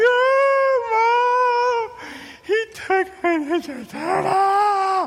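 very high, slow mock wail to mom; fake crying. Little brother tattling to mom, hammed-up crying wail. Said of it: "crying his eyes out".

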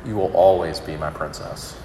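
soft, tearful father's comfort; father tenderly reassures his little girl, softly through tears. Retold or imitated. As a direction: console a crying daughter gently. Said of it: "through tears".

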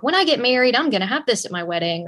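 put-on bright, eager kid planning her wedding; childish daydream. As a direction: gush like a little girl. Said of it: "when we're kids, we're like".

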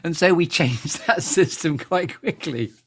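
slow, laughing through the words. Real, not acted. Teasing an old flatmate about hungry friends, laughing. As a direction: tell it through real laughter. Laughing at own locust story.

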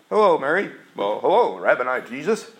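polite small-talk hello; a bland social greeting; offhand hello; mock casual greeting. Shown as a demonstration. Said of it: "It wasn't like that".

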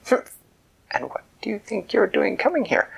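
high indignant royal voice; leprechaun queen. Acted.

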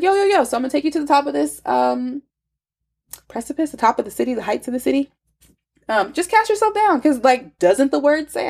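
fast, high, breezy devil; lightly voiced slick tempter; casual tempter voice. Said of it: "And said".

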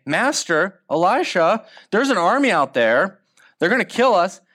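a servant bursting in, frightened; panicked servant. Retold or imitated. Servant panicking to his master.

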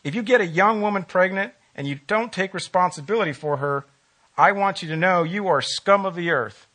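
lightly imitated Texas accent; a hint of Texan twang, retelling a blunt politician. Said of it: "in his Texas accent".

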